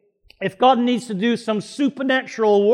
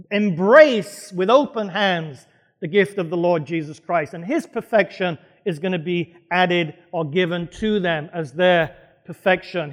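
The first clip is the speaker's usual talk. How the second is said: normal talking voice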